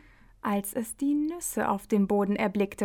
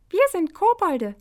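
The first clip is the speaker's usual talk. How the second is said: high, louder goblin voice; 8 semitones higher, 5 dB louder than usual. A narrator's reading. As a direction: announce it proudly like a goblin. Kobolde antworten. (hohe, laute Koboldstimme)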